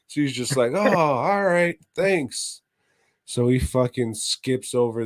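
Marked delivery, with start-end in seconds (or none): 0.7-2.6 put-on kid voice. Kid answers cat lady.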